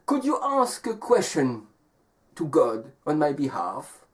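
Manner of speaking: lightly voiced wolf making a request; wolf asking. Wolf asking the traveling man a favor, lightly acted request. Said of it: "The wolf says".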